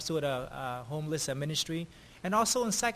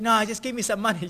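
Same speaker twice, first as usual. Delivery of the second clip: imitating a pushy demand, a bit louder; mock demand; 4 semitones higher, 5 dB louder than usual. Homeless man demanding money instead, mock pushy. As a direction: replay his insistence. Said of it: "he got also upset".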